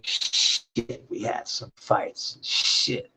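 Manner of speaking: whispered under the breath; whispered thought. Retold or imitated. Recalling the fights with Eve, whispered. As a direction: whisper it to yourself. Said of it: "and I'm thinking".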